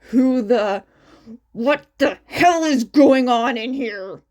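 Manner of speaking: loud furious demand, bursting in; angry yell. Acted. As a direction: yell it at the whole room. Angry boy bursts through door.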